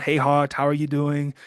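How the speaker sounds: imitating a friend's British accent, badly. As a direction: attempt a rough, half-hearted British accent. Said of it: "That's my best British accent. It's horrible".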